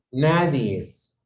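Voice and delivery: Nadie es said slowly, as if it were a plural; wrong form. Shown as a demonstration. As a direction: drag out Nadie es as the incorrect plural. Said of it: "cuando es nadie". (Nadie es lento, como plural incorrecto)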